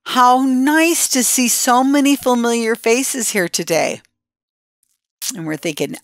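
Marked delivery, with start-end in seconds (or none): 0.0-4.0 imitating the manager. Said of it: "and she says".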